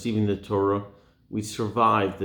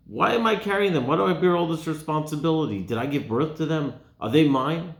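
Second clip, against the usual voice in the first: raised, pleading why-me cry of an overwhelmed leader; exasperated Moshe; 5 semitones higher than usual. Acted. Moshe protesting to Hashem, exasperated and raised. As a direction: let the burden crack into protest.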